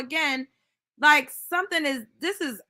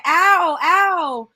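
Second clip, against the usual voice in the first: loud, raised cry of pain; imitated hurt baby; 4 semitones higher, 7 dB louder than usual. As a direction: mimic a baby crying out loudly. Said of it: "the baby in the background saying".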